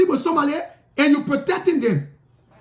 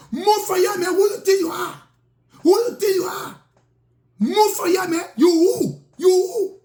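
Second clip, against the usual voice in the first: mild mock shout, lightly raised; retold shouting; 3 semitones higher than usual. Rude young man yelling at the storyteller, mild mock shout. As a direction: imitate a rude man yelling, half-hearted. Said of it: "The brother started shouting".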